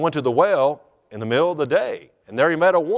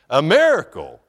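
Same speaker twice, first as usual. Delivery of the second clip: laughing, louder burst on "miracle"; delighted exclamation; 6 dB louder than usual. Real, not acted. Delighted repeat straight after laughing.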